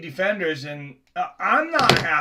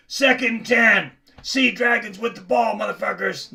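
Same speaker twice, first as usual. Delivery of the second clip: lightly attempted comedian impression, starting louder; Joey Diaz; 3 semitones higher, 4 dB louder than usual. Shown as a demonstration. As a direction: have a half-successful go at a celebrity impression. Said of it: "Joey Diaz impression here".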